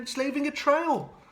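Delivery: thrilled schoolchildren calling out; excited children. Acted. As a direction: point it out with glee. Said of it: "say the children".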